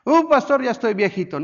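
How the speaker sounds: a hint of a tired old man; mock excuse. Churchgoer excusing himself to the pastor, mock whine.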